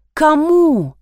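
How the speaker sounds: high, incredulous cry; mild yell. A narrator's reading. Lida demanding answers from Masha, mildly yelling. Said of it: "заорала Лида".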